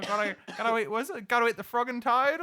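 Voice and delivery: light broad Aussie voice; Aussie bloke heading home to the missus; Australian accent. Retold or imitated. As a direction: say it like a bloke off to the pub. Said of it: "the most Australian thing".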